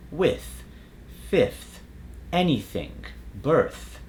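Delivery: "with, fifth, anything, birth" with airy, unvoiced TH; airy voiceless TH. Shown as a demonstration. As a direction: let air through the TH in "with", "fifth", "anything", "birth". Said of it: "A voiceless T H sound is more airy".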